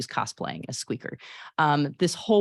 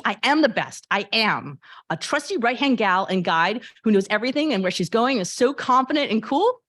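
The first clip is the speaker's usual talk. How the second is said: put-on higher, louder proud girl voice; Honey, bright teen; 4 semitones higher, 3 dB louder than usual. Honey tells Squeaker she's the best as Virgie, proud and bright. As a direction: puff up, boasting about playing Virgie. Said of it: "pretend I can act".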